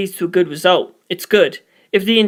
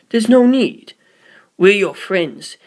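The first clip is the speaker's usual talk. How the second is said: firm then soothing; slower than usual. Acted. Priest calming the startled boy. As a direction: soothe him slowly. Poochie reassuring.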